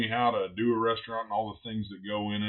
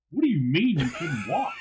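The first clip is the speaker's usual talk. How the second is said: higher-pitched, mock-outraged question; retold mad disbelief; 6 semitones higher, 3 dB louder than usual. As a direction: throw it back at her, imitating your anger. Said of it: "I'm so mad at her".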